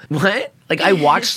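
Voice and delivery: high disbelieving "What?"; shocked. Retold or imitated. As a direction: sound genuinely floored. Retold disbelief.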